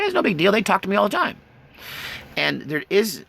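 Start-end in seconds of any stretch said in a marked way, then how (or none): 0.0-1.4 voiced animal.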